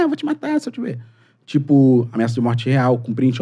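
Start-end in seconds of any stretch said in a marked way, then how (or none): 0.1-1.0 mock tough-guy threat. Mocking a Twitter death threat.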